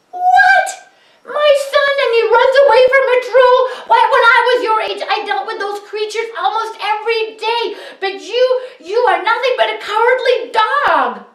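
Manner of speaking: very high, loud, fast scolding; outraged scolding father. A narrator's reading. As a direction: berate the coward son. Father scolds second son.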